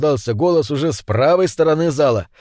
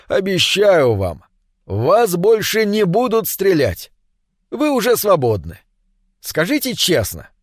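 очень мягко; 3 semitones higher than usual. Acted. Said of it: "уже очень мягко произнёс ведущий". (ведущий мягко и медленно успокаивает раненого Алексея)

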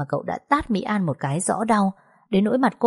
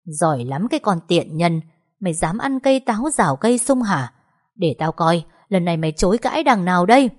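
steely voice; 3 dB louder than usual. Acted. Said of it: "giọng nói đanh thép".

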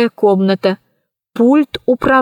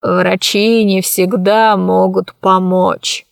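sighing; 3 semitones lower, slower than usual. Acted. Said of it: "вздохнул он".

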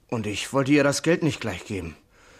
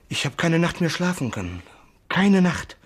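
anguished outburst; 5 semitones higher than usual. Acted. Sailor tells the Kommissar of sleepless nights, anguished. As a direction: let the sleepless guilt burst out. Guilt breaking out.

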